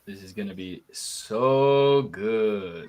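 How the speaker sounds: slow, drawn-out funny voice; slow put-on voice. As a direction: stretch it out in a silly voice with a rising end. Repeats the line in a put-on voice.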